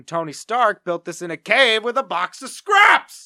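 loud, slow shouted movie quote; screaming. Retold or imitated. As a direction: bellow it through the house. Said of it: "I would scream".

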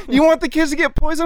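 high, sing-song mimicry of an accuser; childish mocking. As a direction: imitate him like a teasing kid. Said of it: "we just started mocking him".

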